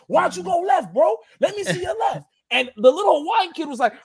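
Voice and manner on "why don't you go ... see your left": high taunting shout; yelling at kids. Retold or imitated. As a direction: dare him to go left, shouting. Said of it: "he was yelling at the kids".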